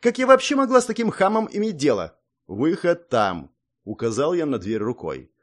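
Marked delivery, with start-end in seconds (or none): 0.0-2.2 outraged. Acted. Song storms at the boor. 2.5-3.5 cold dismissal. Acted. Hero coldly points to door.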